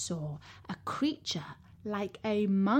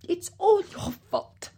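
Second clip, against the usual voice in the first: lady of the house; 9 semitones higher, 5 dB louder than usual. A narrator's reading. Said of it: "she said to her husband".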